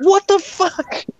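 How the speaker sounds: a slow, high, exaggerated what the fuck; stunned disbelief. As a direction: stretch it out, floored. Shocked at mom's remark.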